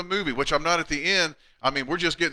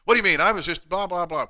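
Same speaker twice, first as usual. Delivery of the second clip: mock offended; 4 semitones higher than usual. Husband protesting to wife over lunch, mildly offended. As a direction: act out being offended, then let it tail off. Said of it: "I was so upset. I was so offended".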